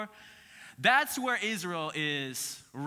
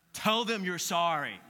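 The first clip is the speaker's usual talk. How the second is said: mom's order. Retold or imitated. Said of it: "your mom says what".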